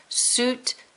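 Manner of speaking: SUITCASE in two beats, ending in a long hiss; long final S. Shown as a demonstration. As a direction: draw out the S at the end of "Suitcase". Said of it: "Sound that end out really long".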